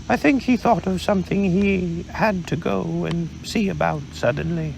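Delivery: Pooh, a little vague; mild bear voice, unhurried; lightly voiced Pooh bear. Pooh speaks to Kanga.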